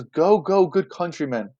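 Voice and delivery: brisk acted order, punched at the start; commanding. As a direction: dismiss the crowd with authority. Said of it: "he's commanding".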